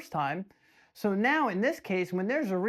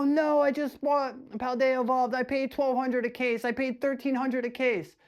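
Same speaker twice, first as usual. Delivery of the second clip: imitating upset buyers; 6 semitones higher than usual. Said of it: "people who are upset".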